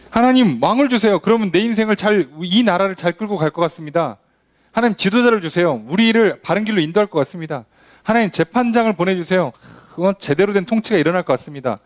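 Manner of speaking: pleading people. Retold or imitated. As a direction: plead to God like a naive petitioner. 백성의 간청을 흉내. (높은 목소리로 간청하는 백성)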